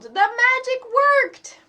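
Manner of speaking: slow, high, loud delighted cry; excited. Acted. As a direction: shout the joy out slowly. Eddie overjoyed.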